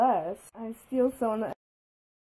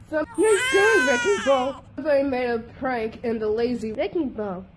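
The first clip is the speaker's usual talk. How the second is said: crying scold. Acted. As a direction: scold through tears. Tearful scolding after prank.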